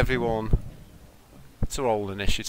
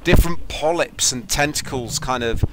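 dramatic game narration; slower than usual. A narrator's reading. Game master describes attack and monster.

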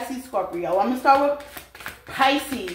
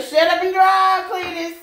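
higher, louder mock bark of a line; mock yell; 7 semitones higher, 5 dB louder than usual. Reader voicing an imagined bossy voice, mock yell. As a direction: snap it like a bossy passenger. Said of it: "I hear".

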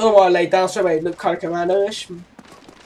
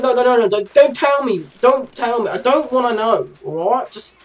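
higher-pitched mock protest; retold pleading refusal; 4 semitones higher than usual. Son telling mum to drop it, mock pleading. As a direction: beg them to stop, playfully.

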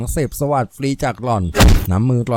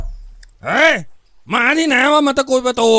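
gruff shout from inside, pitch pushed up; คำรามห้าว; 10 semitones higher, slower than usual. A narrator's reading. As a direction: roar angrily at whoever is at the door. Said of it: "เสียงคำรามห้าวๆดังมาจากข้างใน". (ตะคอกคำรามห้าวๆ)

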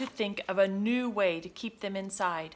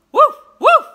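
two short, high woofs; louder barking; 20 dB louder than usual. A narrator's reading. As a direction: bark twice, insistently, like a dog. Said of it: "he barked, louder than before".

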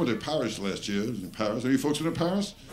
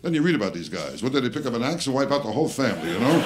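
ordinary delivery

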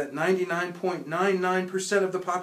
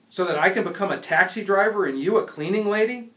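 louder, higher scoffing comeback; mock the idea of leaving; father scoffs at emigrating; sarcastic retort; 6 semitones higher, 7 dB louder than usual.

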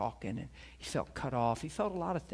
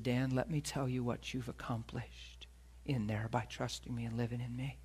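God's voice; 2 semitones lower, 4 dB quieter than usual. Retold or imitated. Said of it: "And he said".

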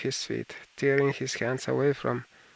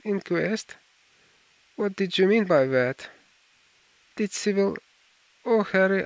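stammering, stifled; 5 semitones higher, 4 dB louder than usual. Acted. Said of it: "Finally he stammered in a stifled voice".

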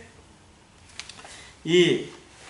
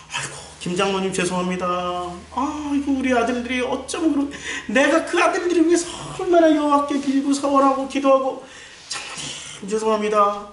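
apologetic wheedling; 4 semitones higher than usual. Acted. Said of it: "엘리는 어떻게 목회를 했을까요".

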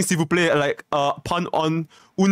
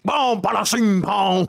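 raised-pitch gibberish French curse; mock French cursing; 4 semitones higher, slower than usual. Showing friend how French streamers curse, mock French cursing. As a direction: spit out fake French swear words. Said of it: "curse in France".

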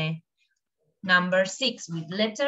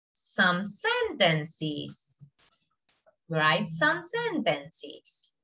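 slow dictation; 5 semitones lower, 3 dB quieter, much slower than usual. Shown as a demonstration.

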